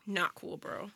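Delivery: lightly voiced scolding white guy; mock white bro. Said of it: "I love when white people be like".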